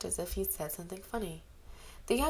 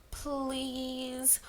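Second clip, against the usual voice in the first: breathy plea; 5 semitones higher than usual. A narrator's reading. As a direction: whisper it like a plea. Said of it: "pouted mournfully".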